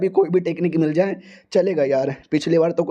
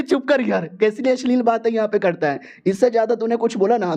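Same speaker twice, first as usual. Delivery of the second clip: higher, disgusted scolding; scolding girl; 3 semitones higher than usual. Acted. The girl scolds the hero's crude talk, higher and disgusted. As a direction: tell him to shut up, pitched up.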